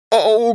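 groaned, high-pitched "Oh". A narrator's reading. Wolf tempted by the lamb's smell, groaning. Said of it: "groaned the wolf".

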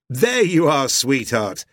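loud, high delighted greeting; hearty cry. A narrator's reading. Husband greeting his wife on coming in, hearty cry. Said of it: "he cried".

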